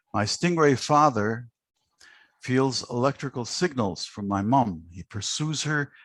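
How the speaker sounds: lively spoken-word poetry recital; poem reading. Acted. Host reading the absent poet's stingray poem aloud, expressive recital. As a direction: read it like a performance poet savouring the words.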